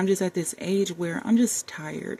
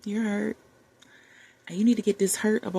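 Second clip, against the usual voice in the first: tender self-talk. Retold or imitated. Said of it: "have a heart-to-heart with myself and say".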